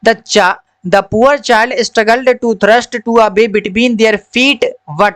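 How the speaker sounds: slow, careful reading-aloud voice; a teacher reads the story line by line to children. Acted. Slow story reading for the class.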